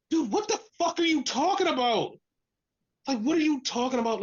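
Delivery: incredulous outburst without extra volume. Acted. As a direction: pitch it up, baffled and fed up. Incredulous reaction to the claims.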